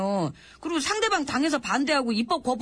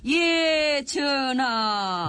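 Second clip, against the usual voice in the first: drawn-out rote reply; much slower than usual. Acted.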